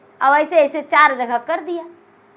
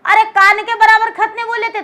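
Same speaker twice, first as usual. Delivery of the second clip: higher, incredulous protest; exasperated; 6 semitones higher, 3 dB louder than usual. Acted. Rider scolds servants for the ear-sized grave, exasperated. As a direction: throw up your hands at the fools.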